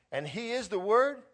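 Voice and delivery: high, loud, wide-eyed disbelief; excited reader finding Jesus in scripture; amazed question. Pretend. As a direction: gasp it out as a discovery.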